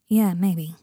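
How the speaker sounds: sighed, almost whispered; a weary whispered sigh. A narrator's reading. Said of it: "sighed Harry".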